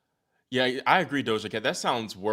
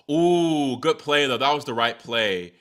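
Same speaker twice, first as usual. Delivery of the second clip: excited; 4 semitones higher, 8 dB louder than usual. Real, not acted. Reacting live to a rally.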